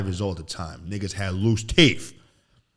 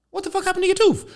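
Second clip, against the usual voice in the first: imitating dad's yell; 7 dB louder than usual. Dad yelling at son.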